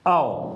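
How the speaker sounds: औ said round and open; model vowel. Shown as a demonstration. Teacher to students, demonstrating औ. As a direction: sound out औ. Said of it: "बड़े ओ का sound होता है".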